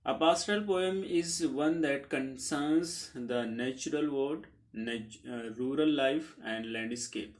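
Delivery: very slow, evenly spaced English definition; slow dictation pace; dictation reading. Acted. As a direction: read it out slowly so students can write it down.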